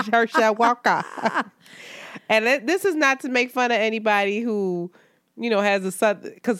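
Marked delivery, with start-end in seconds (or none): 0.1-1.0 mock Southern drawl on the name; Southern-accented send-up, vowels opened to "Hershal Wahka"; Herschel Walker drawl. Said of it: "I can't be on here sounding like".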